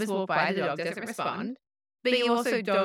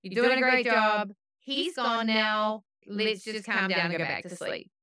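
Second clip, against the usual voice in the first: soothing the dog; 5 semitones higher than usual. Retold or imitated. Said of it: "It's like".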